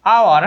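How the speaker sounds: আওয়ার said alone with a silent H, opening on a vowel; pronunciation demo. Shown as a demonstration. Teacher shows students how it is pronounced, আওয়ার with no H sound. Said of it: "এইটার উচ্চারণ হচ্ছে আওয়ার".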